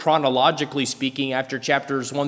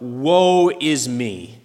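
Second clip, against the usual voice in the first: half-speed, drawn-out lament; earnest woe; much slower than usual. Retold or imitated. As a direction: stretch it out in real dismay.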